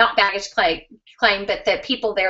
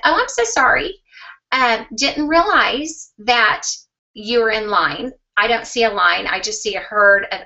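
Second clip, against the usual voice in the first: sweetly nice. Retold or imitated. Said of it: "I'm just gonna be nice".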